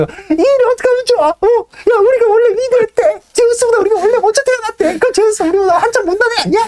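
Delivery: high, excited chatter of stirred-up birds. Retold or imitated. Birds panicking to each other, high and excited. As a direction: birds in an uproar, pitched high and eager. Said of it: "막 이러면서 신성모독을 막 하는 거죠".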